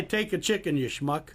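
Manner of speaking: high, loud mock line, breaking into a laugh; teasing the caller with a made-up quote; joking mock shopkeeper. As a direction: ham up a pushy Brooklyn shop lady. Host jokingly invents the shopkeeper's line.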